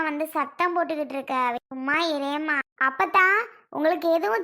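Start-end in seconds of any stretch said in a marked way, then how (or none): 2.8-3.3 insistent call. Real, not acted. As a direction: call அப்பத்தா to cut her off.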